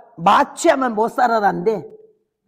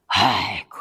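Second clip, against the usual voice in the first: 속삭이는 탄식; 13 semitones lower, 3 dB quieter, slower than usual. Retold or imitated. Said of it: "수술 장면 회상 탄식".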